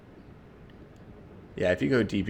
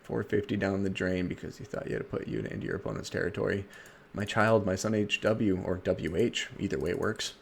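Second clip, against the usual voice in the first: Dark Elf voice; 3 dB quieter than usual. Pretend. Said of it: "Dark Elf voice".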